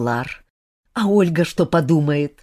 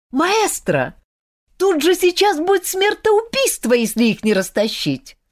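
high, urgent pleading; panicked young woman calling for help; alarmed plea; 11 semitones higher than usual. A narrator's reading. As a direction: beg the teacher to step in. Olga alarmed pleads to maestro.

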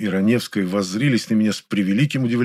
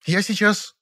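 short growl; 11 semitones higher, slower than usual. A narrator's reading. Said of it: "коротко рыкнула".

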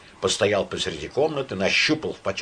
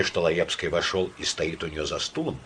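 ordinary delivery, nothing marked

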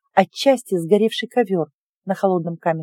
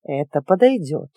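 witch voice; 5 semitones lower than usual. Acted. Witch voice, low.

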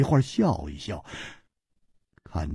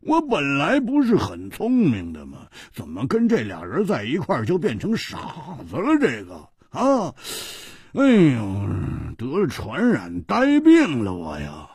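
笑着自嘲; 5 semitones higher than usual. Acted. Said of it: "他摸着脑袋笑着说".

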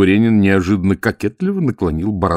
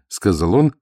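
ordinary delivery, nothing marked

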